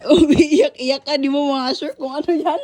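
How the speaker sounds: loud, high, laughing mockery; laughing tease. Real, not acted. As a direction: tease the crier at full volume. Laughing at friend crying over gift. (malakas na pang-aasar na may tawa)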